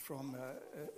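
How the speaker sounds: fighting back tears mid-sentence; choked up. Real, not acted. Preacher choking up before telling the story. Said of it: "voice breaking before story".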